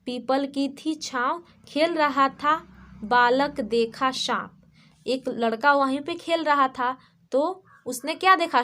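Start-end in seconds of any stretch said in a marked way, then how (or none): 0.1-4.5 slow, measured rhyme recital; children's poem reading. Shown as a demonstration. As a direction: read it out line by line for small pupils, slowly. Reads the rhyme aloud. (धीरे-धीरे कविता पाठ)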